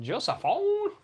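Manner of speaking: high, loud cry of the name; excited exclamation. Real, not acted. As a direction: burst out with the name.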